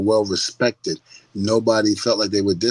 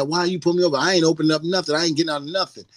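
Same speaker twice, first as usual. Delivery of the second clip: higher-pitched mock defiance; acting big and bad; 5 semitones higher, faster than usual. Mimicking people in pulled-over videos, big and bad. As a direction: imitate a cocky driver refusing orders. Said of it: "they're acting all big and bad".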